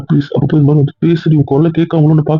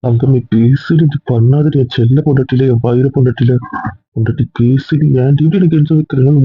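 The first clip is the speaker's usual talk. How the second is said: tender pleading. Acted. Husband begging his silent wife to talk, tender pleading.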